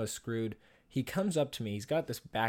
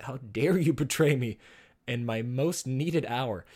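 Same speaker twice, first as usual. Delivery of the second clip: hammed-up reproach, louder, slowing at the end; mock betrayed outrage; 4 dB louder, slower than usual. Student scolding his traitorous wallet, theatrical mock outrage. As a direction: scold it like a melodramatic betrayed hero.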